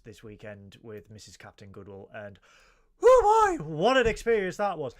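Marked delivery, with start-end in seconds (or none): 3.0-4.9 dramatic exclamation. Real, not acted. Host recalling his weekend trip, loud and high-pitched. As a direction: exclaim with mock horror.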